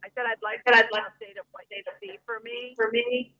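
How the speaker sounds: choppy caller line; breaking up over the phone; radio breaking up. Real, not acted. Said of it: "You're very choppy".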